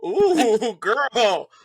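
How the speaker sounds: loud, high, drawn-out ooh; impressed teasing. Retold or imitated. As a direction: whoop slowly at a friend's surprise talent. Retells impressed reaction to the accent.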